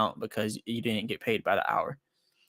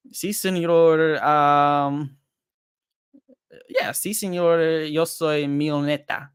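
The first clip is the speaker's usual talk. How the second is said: slow, drawn-out Mexican accent with a hint of song; playful mock Mexican accent, stretching each word; 2 semitones higher, much slower than usual. Streamer boasts to chat in a slow mock Mexican accent. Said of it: "That was my Mexican accent".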